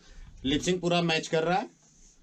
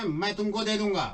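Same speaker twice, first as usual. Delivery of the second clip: acted dialogue demo; 5 semitones higher than usual. Shown as a demonstration. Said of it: "उसी तरह acting करके बोलो".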